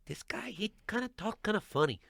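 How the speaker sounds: high-pitched mimicked girl's voice; high mock girlish aside; imitated audience girl.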